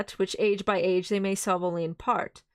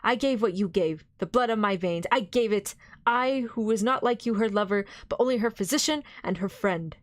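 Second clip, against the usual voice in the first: pleading, compassionate appeal; full of pity; 3 semitones higher than usual. Acted. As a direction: beseech him with tender pity. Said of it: "with an accent full of pity".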